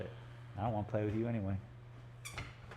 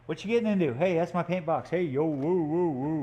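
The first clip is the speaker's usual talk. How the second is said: loud, raised-pitch protest to a dog; real calling out; 3 semitones higher, 5 dB louder than usual. Real, not acted. Owner catches the dog in the paint box, calling out. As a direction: holler to stop the dog, ending in woo-woos.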